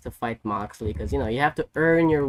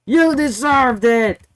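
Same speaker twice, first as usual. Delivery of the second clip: high, loud, slow retort; mock angry yell; 9 semitones higher, 7 dB louder than usual. Hangman snapping back at Swerve, mock shout. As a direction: spit it back, hammed-up. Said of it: "And then Hangman was like".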